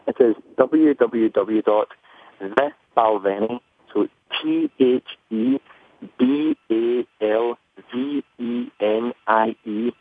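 slow, careful Scottish accent spelling; thick Scottish accent. Real, not acted. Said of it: "'cause you said it kinda quickly".

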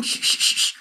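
whispered shh to hush him; shushing. Retold or imitated. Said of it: "pulled on my pant legs and said".

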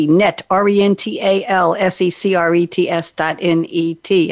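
spelled out like a ventriloquist; lips barely moving. Shown as a demonstration. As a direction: keep the lips almost still. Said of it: "I can almost do that without moving my lips".

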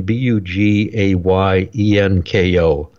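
B U G A Y E N K O spelled slowly; spelling it out. Shown as a demonstration. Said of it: "Last name".

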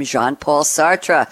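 French accent on the name; best French accent. Shown as a demonstration. Host names the philosopher behind the quote, in French accent. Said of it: "That's my best French accent".

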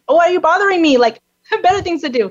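a hammed-up grouch who cannot be bothered; grumpy man. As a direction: play the annoyed passer-by, half in jest. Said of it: "grumpy and mad".

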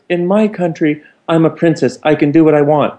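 a lightly voiced entitled princess; haughty princess. Haughty passenger answers back.

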